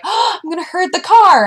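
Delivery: high, goofy voice for the eager herding dog; dog's inner voice. Retold or imitated. Owner voicing her dog chasing the car, high and goofy. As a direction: voice the dog like a dopey kid. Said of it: "It was like".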